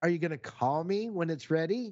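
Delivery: mock sarcastic tone. Retelling a phone call about a late repair: retelling a sarcastic question. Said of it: "And I'm being this sarcastic".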